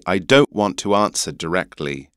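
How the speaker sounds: English "answer", broad A and no R; English accent. Shown as a demonstration. Teacher giving the English version, English accent. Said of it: "so in an English accent".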